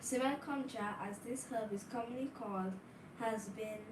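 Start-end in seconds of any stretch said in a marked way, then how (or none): 0.0-0.9 louder for the back rows; speaking up louder. Real, not acted. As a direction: raise the voice so all hear. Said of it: "Speak up, please".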